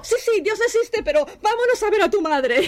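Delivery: high-pitched, laughing retold urgency; flustered urging. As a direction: mimic hurrying someone along in a high voice. Acting her panicked reply to Daniel.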